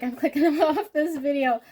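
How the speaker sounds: high, loud mock viewer, laughing; hammed-up viewer quitting, high and loud. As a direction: play the bored viewer, laughing as you say it. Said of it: "You're like".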